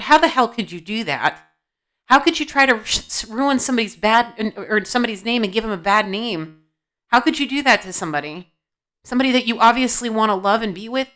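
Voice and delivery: heated, disbelieving reproach; judgy scolding. Real, not acted. Reader calls out a client who ruined somebody's name, judgy. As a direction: scold them in disbelief, pushing the key words. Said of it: "this may sound a little judgy".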